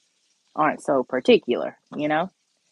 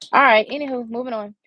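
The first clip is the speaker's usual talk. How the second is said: much higher, playful and bouncy; high sing-song; 7 semitones higher, 5 dB louder, faster than usual. Real, not acted. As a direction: toss it off in a high singsong. Repeated catchphrase, sung high.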